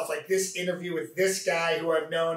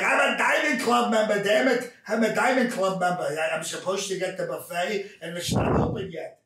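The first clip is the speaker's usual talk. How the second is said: lightly voiced cranky old casino regular; a hint of a grumbling old man demanding the buffet; old Jewish character; 2 semitones higher than usual. Old man complaining he is owed the buffet, lightly voiced. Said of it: "old Jewish character".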